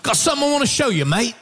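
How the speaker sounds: put-on fast, light Australian accent on mate; mock Australian accent. Imitating Cole inviting him over, fast light Australian accent. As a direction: rattle it off like an eager Aussie. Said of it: "and he goes".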